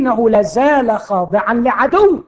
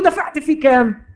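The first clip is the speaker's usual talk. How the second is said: higher, odd mocking voice of the disease; taunting disease; 8 semitones higher than usual. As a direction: needle him about the price. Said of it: "يعير سيدي". (المرض يسأل ساخرا بصوت غريب)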